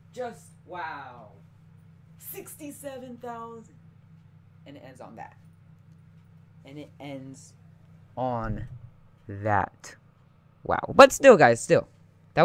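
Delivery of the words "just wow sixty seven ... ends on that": much softer, defeated murmur; deflated. Real, not acted. Gamer murmuring softly, crushed by the lost run. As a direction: let it fall away, crushed.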